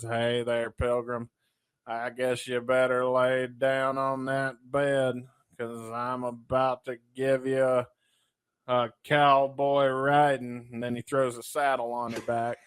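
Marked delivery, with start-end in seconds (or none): 0.0-10.7 a lightly voiced slow cowboy drawl; slow, easy cowboy swagger; John Wayne impression. Host acting out John Wayne in the bedroom joke, lightly slow. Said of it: "John Wayne comes in the room and he says".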